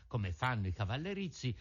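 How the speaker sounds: ordinary delivery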